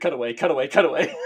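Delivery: lightly done newsreel announcer; hint of a vintage broadcaster; old-timey newsreel voice. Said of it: "my best old-timey newsreel guy voice".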